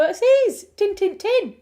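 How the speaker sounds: emphatic "tin, tin, tin". Retold or imitated. A Yorkshire local insisting to a friend where the biscuits are. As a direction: insist hard, exasperated at the repetition. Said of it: "And you go".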